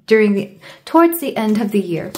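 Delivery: halting, stumbling restarts; stuttering. Real, not acted. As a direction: trip over the words. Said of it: "Sorry, I'm stuttering today".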